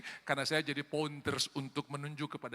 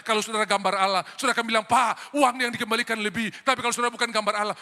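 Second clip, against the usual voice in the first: loud, emphatic sermon delivery; full-force preaching; 5 semitones higher, 9 dB louder than usual. Real, not acted. Preacher illustrating honesty over wrong change, full-force preaching. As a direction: preach it loudly and insistently.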